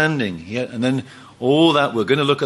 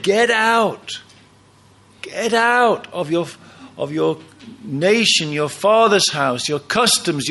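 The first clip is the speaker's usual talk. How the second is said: calmer, lightly voiced God calling him out; gentler divine call; 2 semitones higher than usual. God calling Abraham out of his old life, lightly voiced. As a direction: tell him to leave, patiently. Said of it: "it's what he said".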